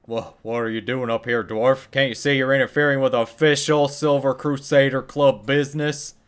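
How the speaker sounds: indignant scolding. Acted. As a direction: bristle at the dwarf for barging in. Mage NPC scolding the dwarf.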